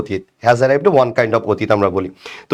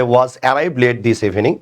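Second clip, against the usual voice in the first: slow reading; much slower than usual. Shown as a demonstration. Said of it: "আর এটা হচ্ছে".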